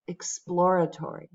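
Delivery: "exploratory" with PLOR as the stressed syllable; stress on second syllable. Shown as a demonstration. Teacher showing students the last word, second syllable of "exploratory" stressed. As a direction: put the weight on PLOR in "exploratory". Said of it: "the second syllable gets the stress".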